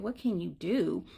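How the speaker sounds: slow, low echo of the question; knowing echo. Retold or imitated. Stranger about to advise the mother, slow knowing echo. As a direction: hand the question back, drawn out. Echoes the mother before giving advice.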